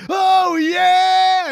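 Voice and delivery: high, loud raspy wrestler yell; Macho Man "Oh yeah". Retold or imitated. Co-host pitches a slow-motion entrance, booming wrestler yell. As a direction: bellow it like the wrestling legend. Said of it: "Wouldn't it be great if we got".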